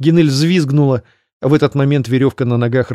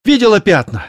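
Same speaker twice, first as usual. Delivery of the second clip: high, loud urgent cries; urgent shouting; 10 semitones higher, 4 dB louder than usual. Acted. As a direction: press her to run faster. Fleeing elf urges companion.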